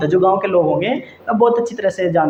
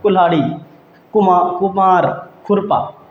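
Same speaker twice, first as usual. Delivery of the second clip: said quickly. Shown as a demonstration. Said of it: "अब इनको हम जल्दी जल्दी बोलेंगे".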